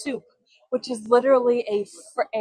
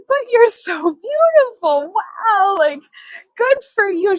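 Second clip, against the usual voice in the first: retold praise; 9 semitones higher, 4 dB louder than usual. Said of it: "I said".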